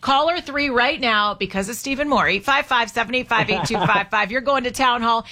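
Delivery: upbeat host calling out the contest winner; radio host announcing the ticket winner to listeners, upbeat announcer read; radio giveaway announcer. Acted. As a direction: sell the prize like a radio host. Reads phone number and plugs.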